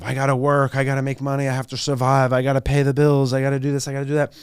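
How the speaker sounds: mock rat-race mantra. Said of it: "on this, like, mission of".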